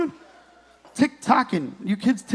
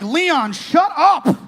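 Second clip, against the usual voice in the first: wife scolding; 3 semitones higher, much slower than usual. Retold or imitated. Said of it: "Your wife is sitting next to you now like".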